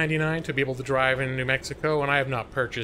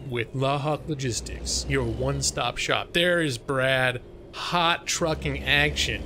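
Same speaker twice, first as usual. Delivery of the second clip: ad read; slower than usual. Acted. Trucking company ad slogan.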